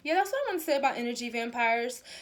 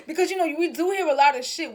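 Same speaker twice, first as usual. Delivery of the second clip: high loud laugh running into the words; real laughter while talking; 5 semitones higher, 9 dB louder, faster than usual. Real, not acted. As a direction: laugh through the line, louder. Laughs at the spirit story.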